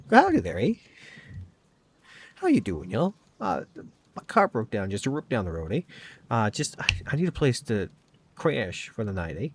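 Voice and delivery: hammed-up Canadian farmhand accent; bad rural Canadian accent. Player fakes a Canadian accent to distract the family, laughably bad Canadian accent. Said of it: "it's kind of a laughably bad rural Canadian accent".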